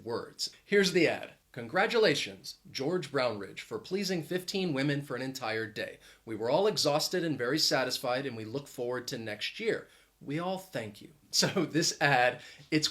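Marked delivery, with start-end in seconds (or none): 1.5-11.1 1 understated ad reading. Shown as a demonstration. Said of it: "I did not read it with much intonation or emphasis".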